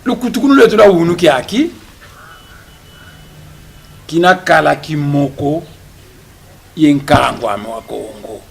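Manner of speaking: loud, declaiming speech in Kikongo, rising on each line; rousing oratory. Acted. Press conference speaker rallying the audience, loud declaiming oratory. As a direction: proclaim it to the room like a rally speech.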